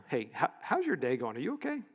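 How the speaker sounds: soft, sincere check-in with a lift on okay; caring greeting. Shown as a demonstration. Speaker asking the juice girl how she is, softly and sincerely. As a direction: really ask how her day is. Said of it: "change that phrase just a little bit".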